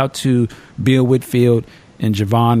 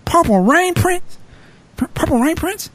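incredulous cop. Retold or imitated. Police officer can't believe it's a famous singer, incredulous. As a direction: stretch it out in total disbelief.

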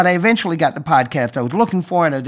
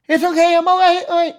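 phone voice; 3 dB louder, faster than usual. Pretend. Pretending to be his phone.

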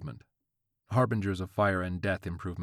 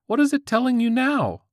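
put-on high squeaky teen voice; squeaky-voiced teen; 10 dB louder than usual. A narrator's reading. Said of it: "the squeaky-voiced teen".

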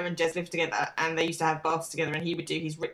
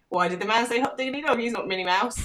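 imitating three-year-old daughter; 4 semitones higher than usual. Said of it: "she said".

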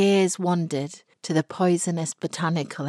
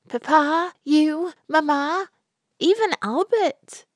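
Florrie's bitter list; 12 semitones higher, 4 dB louder than usual. A narrator's reading. Florrie listing betrayers.

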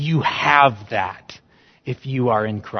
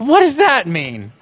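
much higher, louder bewildered questions; a listener puzzled by the Euphrates detail, much higher; 11 semitones higher, 5 dB louder than usual. Retold or imitated. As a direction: ask it like a baffled listener. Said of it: "you're like".

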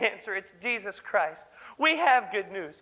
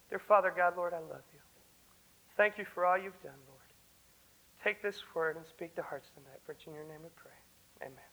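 soft, lower, hushed prayer; 5 semitones lower, 6 dB quieter than usual. Acted. Young preacher closing the service in hushed prayer. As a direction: pray quietly to close.

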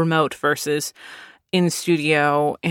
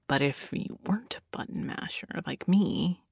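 whispered aside; 13 dB quieter than usual. Real, not acted. Aside about better players.

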